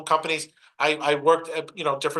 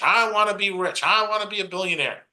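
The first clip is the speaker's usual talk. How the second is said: higher-pitched mock wishing; mock wishful; 4 semitones higher than usual. Speaker mimics poor people who just wanna be rich, mock wishful. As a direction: imitate an empty wish, pitched up.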